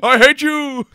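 angry crying. Pretend. Quoting Revenge of the Sith.

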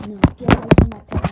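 full panicked scream; screaming at a spider. Real, not acted. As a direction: shriek it at the bug.

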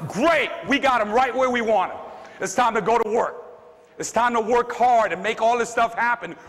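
fired up. Retold or imitated. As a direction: get pumped at the challenge. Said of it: "I got fired up".

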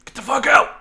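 high, loud panicked yell. Real, not acted. Guards chasing him, high panicked yell.

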